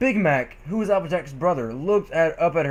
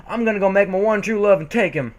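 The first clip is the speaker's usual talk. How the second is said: defiant shout; 4 semitones higher than usual. Acted. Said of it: "she shouted in defiance".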